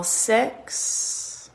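breathy whispered count. Shown as a demonstration. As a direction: whisper the number.

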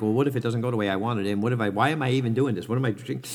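rushed, fretful what-ifs, fast; mock panicky inner voice. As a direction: rattle off the worries like a nervous mind. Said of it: "freaking out".

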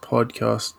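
podcast with a short clipped o vowel; Australian podcast. Shown as a demonstration. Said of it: "do those two words not rhyme in an Australian accent?".

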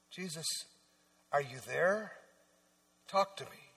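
soft, intimate prayer voice; whispered prayer. Pretend. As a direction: pray it softly, as if alone. Praying aloud to Jesus.

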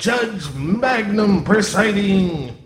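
town crier. Acted. Bailiff announces the judge.

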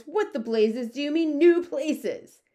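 high, loud, exasperated demand; outraged shout. A narrator's reading. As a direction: build to a full, high-pitched shout. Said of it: "shouted the head of the Air Force".

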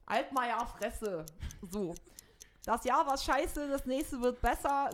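a light hint of Merkel; lightly voiced chancellor's New Year address; Angela Merkel impression. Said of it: "von Mutti Angela Merkel".

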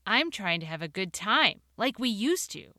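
a touch of worn-out frustration; exasperated. Acted. Narrator pleading with wife in the car, mildly exasperated.

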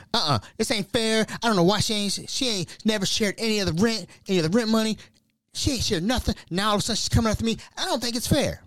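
high, griping mock-mother voice; imitating mom. Mom going off script about rent, in a high complaining voice.

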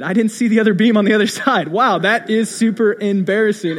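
amused, slightly loud retelling of a blunder; self-mocking, with laughter breaking in; laughing embarrassment. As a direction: laugh at your own foolishness. Retelling his own embarrassing realisation.

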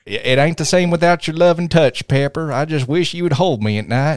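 mock lovelorn Southern sweetheart; Southern accent. Tony pining to Pepper, in a Southern accent. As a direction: plead playfully in a Southern twang. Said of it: "if you keep talking like that".

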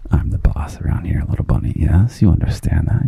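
mock bossy whisper. Playful mock bossiness to listener.

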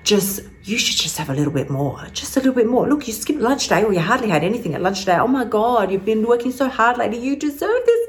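lightly voiced sultry temptress; sultry inner voice. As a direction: coax with swooping pitch, a hint of sultriness. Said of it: "just whispers like a sultry little bitch".

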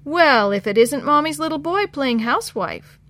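loud singsong mockery; sing-song taunt. A narrator's reading. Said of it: "Dan's sing-song voice".

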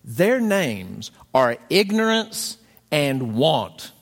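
very slow, grave spirit voice; solemn ghost. Retold or imitated. Ghost of Christmas Present reveals the children, slow and grave. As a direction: pronounce it like a doom. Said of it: "And the ghost says".

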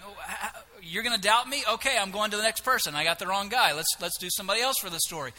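quick, flustered brush-off; put-on impatient huff; mock exasperation. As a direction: dismiss the doubter and hurry on to someone else. Imagines God giving up on Gideon.

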